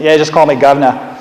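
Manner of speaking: lightly put-on Cockney with a dropped R; Cockney accent. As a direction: try your best playful Cockney. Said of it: "my best Cockney accent".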